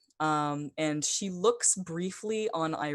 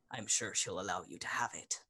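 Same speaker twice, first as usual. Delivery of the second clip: fast whisper; 7 semitones lower, 8 dB quieter, faster than usual. Acted. NPC quietly reassuring the player.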